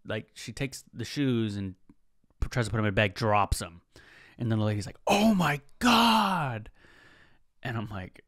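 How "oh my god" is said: flustered gasp. Retold or imitated. Shaken cashier drops the shoes.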